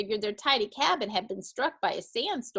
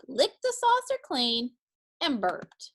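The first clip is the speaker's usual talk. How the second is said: ordinary delivery, nothing marked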